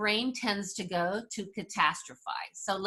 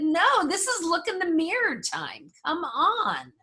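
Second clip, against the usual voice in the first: firm call-out; 8 semitones higher than usual. Retold or imitated. Speaker retells calling out coworker.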